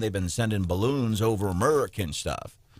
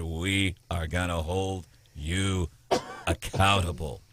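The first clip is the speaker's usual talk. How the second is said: mock Kamala bold statement; 5 semitones lower, 4 dB quieter, slower than usual. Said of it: "makes a bold statement like that".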